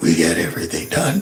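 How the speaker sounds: hushed delivery with a little rasp. Replaying a politician's line from a clip: imitating a raspy voice. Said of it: "drop a little bit of rasp".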